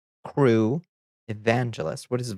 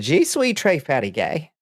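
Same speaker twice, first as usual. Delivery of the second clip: put-on grandma's clumsy French accent, pitched up; a light, mock-awful French accent from grandma; bad French accent; 5 semitones higher than usual. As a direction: mangle the French like an old American grandmother. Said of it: "in the worst accent you can imagine".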